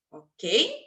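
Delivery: normal talking voice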